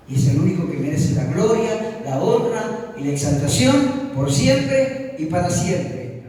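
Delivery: emphatic preaching. Real, not acted. Preacher exalting God before the congregation, emphatic. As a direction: declare it with firm, punched key words.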